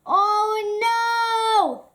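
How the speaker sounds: high, loud alarmed goat; panicked high cry; frightened cry. Acted. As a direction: gasp it out in fright. Goat sees the troll.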